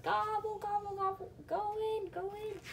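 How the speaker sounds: squeaky high gobbling turkey. Acted. Flustered turkeys calling each other, high squeaky gobble. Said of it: "They're like".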